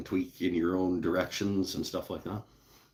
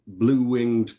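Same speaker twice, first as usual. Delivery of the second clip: put-on Australian accent; 4 semitones higher, 7 dB louder than usual. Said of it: "be all Australian".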